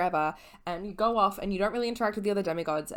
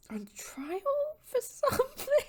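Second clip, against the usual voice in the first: whispered aside; slower than usual. Real, not acted. Joking whisper then laugh.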